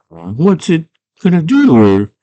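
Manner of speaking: high-pitched fretful cartoon voice; worried question. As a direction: ask as a nervous little coward. Worried Hoggle questions Jareth.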